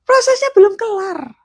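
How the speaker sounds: a high teasing voice; high mock retort. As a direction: tease them. Mock exasperated reply.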